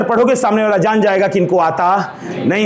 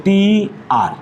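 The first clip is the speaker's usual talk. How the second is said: letter by letter, slow; slow spelling; spelled out slowly; 3 semitones lower, much slower than usual. Shown as a demonstration. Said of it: "सिस्टर की spelling ये लिखा था".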